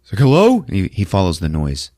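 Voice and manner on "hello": high loud questioning call; distant call. Retold or imitated. Voice answering the son from the distance, high loud call. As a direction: call back from somewhere far away. Voice calls from far off.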